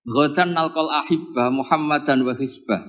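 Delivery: slow, measured Arabic quote; the dying Bilal quoted slowly; slow Arabic recitation. Retold or imitated.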